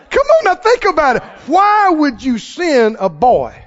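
high, loud, urgent appeal; preaching at full force. Real, not acted. Preacher urging congregation, high and loud. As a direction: drive it home to the crowd.

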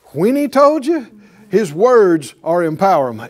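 swelling pulpit emphasis; building preaching shout. Real, not acted. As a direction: preach it up with force. Preacher building to loud climax.

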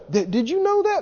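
eager question. Retold or imitated. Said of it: "somebody say".

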